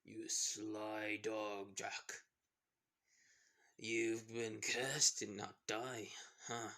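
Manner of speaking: slow, softly voiced pirate rival; slow, quiet hint of a villain; Barbosa. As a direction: lightly play a sly pirate, drawing it out. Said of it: "Well, then Barbosa saying".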